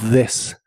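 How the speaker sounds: "this" with a voiced buzzing th like d; "this" th vibrating; model word. Shown as a demonstration. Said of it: "suena como una D vibrante".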